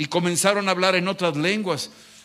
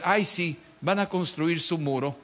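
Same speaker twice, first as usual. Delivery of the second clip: mocking. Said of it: "Se burlaban de Nehemías".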